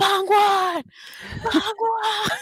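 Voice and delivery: screaming.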